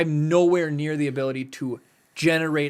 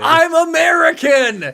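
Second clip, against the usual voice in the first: high, loud, slow I'm American; indignant protest; 14 semitones higher, 10 dB louder, slower than usual. Real, not acted. Defending his accent, a loud high indignant shout. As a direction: protest with mock outrage. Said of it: "very American accented".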